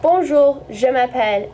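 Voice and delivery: Bonjour, je m'appelle in careful French sounds; French pronunciation demo. Shown as a demonstration. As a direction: model Bonjour, je m'appelle clearly for learners. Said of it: "So you would need to say".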